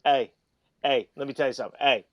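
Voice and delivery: lightly imitated PE teacher verbal tic; Chip. Mimicking a PE teacher friend to the hosts, light impression. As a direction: repeat short, punchy heys like a coach. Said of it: "he talks like this".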